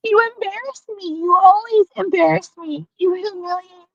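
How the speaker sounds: high, teary pleading; tearful. Real, not acted. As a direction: near tears, voice wavering. Tearful plea to former friend.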